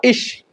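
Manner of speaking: इश with sh, not g; German IG sound. Shown as a demonstration. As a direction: say ig as इश, "ish". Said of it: "उसका pronunciation क्या होगा".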